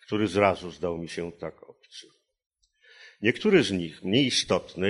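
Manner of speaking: careful, rhythmic reading of prose; literary reading. Acted. Translator reads his own version of the passage, measured literary reading. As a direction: read the long sentences aloud, weighing each phrase.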